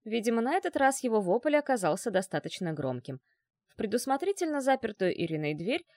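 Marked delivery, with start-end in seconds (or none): none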